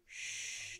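soft breathy shush; a quick unvoiced shh. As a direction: hush the room, barely voiced. Calming a scared boy.

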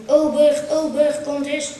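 high, loud call across a busy café; high and loud "Ober" calls to the waiter. Acted. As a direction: wave the waiter over, calling.

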